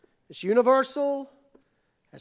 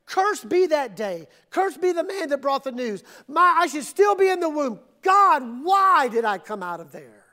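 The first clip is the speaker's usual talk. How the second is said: anguished cry to God; 2 semitones higher, 4 dB louder than usual. Acted. Preacher voicing a despairing believer, anguished plea.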